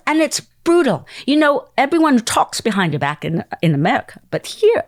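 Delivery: high-pitched, animated warning; acted-out dramatic confiding; animated producer. Producer warning about harsh judges.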